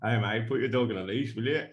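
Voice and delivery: lightly attempted Australian accent; bad Aussie accent. Shown as a demonstration. Doing the angry dog owner on request, half-hearted Aussie accent. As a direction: have a shaky go at an Aussie accent. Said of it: "in an Aussie accent".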